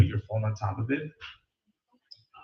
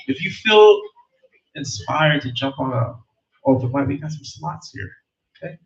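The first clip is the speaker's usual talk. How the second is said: loud, raised host call; 3 semitones higher, 6 dB louder than usual. Acted. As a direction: call the next act over the crowd. Host calls next performer.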